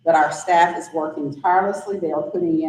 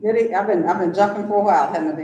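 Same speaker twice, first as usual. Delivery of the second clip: muffled through a mask; faster than usual. Real, not acted. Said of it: "Sorry, it's muffled".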